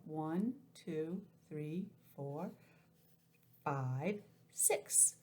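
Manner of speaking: put-on careful counting for kids; counting aloud. Shown as a demonstration. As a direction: count them out slowly. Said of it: "I guess they don't count that".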